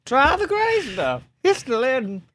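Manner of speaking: put-on high, French-accented Lumiere line; a light French Lumiere accent. Quoting Beauty and the Beast, light French accent. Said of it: "That's a great Lumiere".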